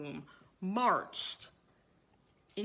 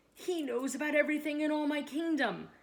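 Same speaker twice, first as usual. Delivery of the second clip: loud, high-pitched command from the king; royal order; 5 semitones higher, 5 dB louder than usual. A narrator's reading. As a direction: raise your voice and order it as king. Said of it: "ordered the king".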